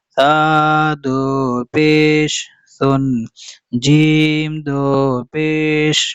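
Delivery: slow, drawn-out syllables on a level tone; Qaida spelling recitation. Shown as a demonstration. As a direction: chant each letter name steadily, holding the long vowels. Leads spelling recitation drill.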